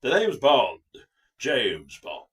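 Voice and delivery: loud Bond introduction, dropping low at the end; Roger Moore impression. Redoing it as in the film, loud showy impression. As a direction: announce it big like a game show host. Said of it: "do him in the film".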